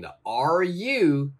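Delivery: slow teacher explanation. Shown as a demonstration. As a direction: spell it out slowly. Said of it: "always try to join".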